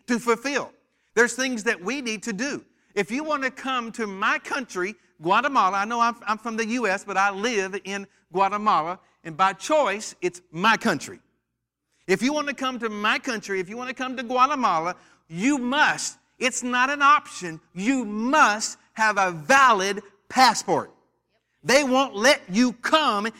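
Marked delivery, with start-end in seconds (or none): none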